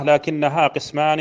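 slow, drawn-out chant of the poem line; reciting the verse. Shown as a demonstration. Teacher reciting the poem line to students, slow chant. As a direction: chant it slowly like reciting a memorized text. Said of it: "وقال رحمه الله".

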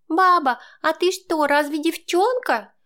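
a small grandson who can't believe it; squeaky, doubtful kid voice; skeptical child. A narrator's reading. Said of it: "с таким скептизмом".

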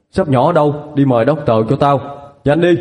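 urgent orders; calling servants. Acted. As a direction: hurry the servants along. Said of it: "hô hào đám gia nhân".

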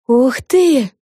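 high, loud wow of delight; impressed, high-pitched outburst; exclaiming. A narrator's reading. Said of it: "воскликнула Флафанора".

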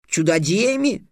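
put-on a boy repeating the word in surprise; lightly voiced boy, amazed; astonished boy. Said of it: "поразился Халанбери".

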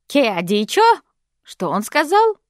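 loud sharp bark; barked question. Acted. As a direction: snap it at him. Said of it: "рявкнула она". (Габи рявкает на жениха, громко и резко)

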